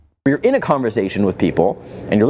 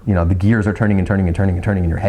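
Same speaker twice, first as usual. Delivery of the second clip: rushed; 2 semitones lower, much faster than usual. Shown as a demonstration. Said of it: "you're going like this".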